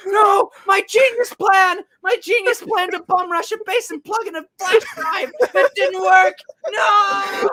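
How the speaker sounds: high, slow, yelled dumb villain boast; mock villain shout. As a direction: yell it high like a proud idiot villain. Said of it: "He goes".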